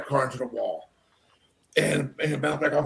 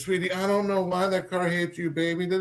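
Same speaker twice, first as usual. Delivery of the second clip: consoling father; 3 semitones higher, 4 dB quieter than usual. Retold or imitated. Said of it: "consoling his daughter".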